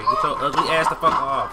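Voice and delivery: loud shout through laughter; laughing yell. Real, not acted. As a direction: yell it while cracking up. Animal attacking in game.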